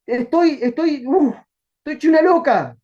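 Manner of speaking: breathless excited woman. Retold or imitated. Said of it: "va y corre a la gente y le dice".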